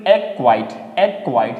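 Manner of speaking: एक्वाइट said as "akwite" with no c sound; silent c. Shown as a demonstration. Teacher repeating acquit for the class, careful. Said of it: "सी को हम प्रोनाउंसिएट नहीं करेंगे".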